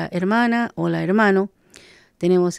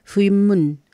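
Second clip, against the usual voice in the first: "Shum lei fui mun" spoken very slowly, one syllable at a time; slow careful demo; much slower than usual. Shown as a demonstration. Teacher says the plural greeting slowly so listeners can repeat it. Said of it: "ahí uno dice".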